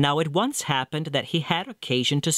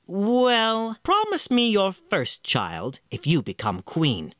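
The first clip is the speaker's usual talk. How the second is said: little man's demand; 6 semitones higher, slower than usual. Acted.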